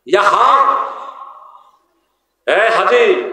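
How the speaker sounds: Egyptian Arabic, jim said as a throaty g; Egyptian Arabic accent. Retold or imitated. Preacher imitating an Egyptian's Egyptian Arabic. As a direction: say hajji as Egyptian haggi. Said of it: "মিশরিরা জিম করতে পারে না, ওরা জিমেরে গাইন করে".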